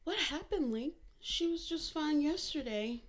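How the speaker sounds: frightened daughter on the phone; alarmed. A narrator's reading. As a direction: ask in sudden alarm.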